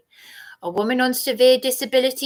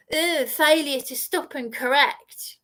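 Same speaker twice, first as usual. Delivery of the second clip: mocking imitation; 3 semitones higher than usual. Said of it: "you mocked my words".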